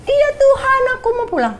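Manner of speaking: put-on very high childlike voice, eager and small; like a little child. Answering God's call home in a high little-child voice. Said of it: "Kayak anak kecil".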